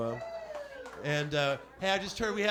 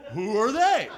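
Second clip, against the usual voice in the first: louder demanding who are they; a touch of mock outrage; mock incredulous question; 6 dB louder than usual. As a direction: play a skeptic who keeps interrupting. Mock dialogue with self.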